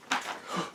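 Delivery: sudden breathless hiccup gasp; quick sharp hiccup intake. Real, not acted. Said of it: "That's why I'm kinda hiccuping".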